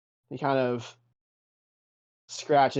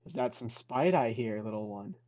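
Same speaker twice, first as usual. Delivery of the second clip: sarcastic master; 2 semitones lower, 5 dB quieter than usual. Acted. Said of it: "and goes".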